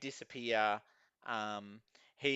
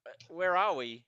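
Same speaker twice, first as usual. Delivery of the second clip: higher-pitched, halting bewildered questions; confused man; 6 semitones higher, 3 dB louder than usual. Acted. Dazed man questioning a security officer, confused. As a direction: play him disoriented, climbing higher with each question. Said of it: "looks around in confusion".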